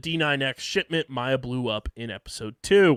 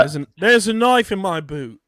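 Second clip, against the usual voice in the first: higher and louder, mock cowboy quote; hammed-up movie quote; 7 semitones higher, 9 dB louder than usual. Host riffs on the knife scene as a cowboy, hammed up. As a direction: play the line like a cartoon cowboy.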